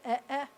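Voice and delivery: short, separate "eh, eh" sounds; two short vowels. Shown as a demonstration. Teacher demonstrating two es together, short vowels. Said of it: "accent's always gonna be on the first eh".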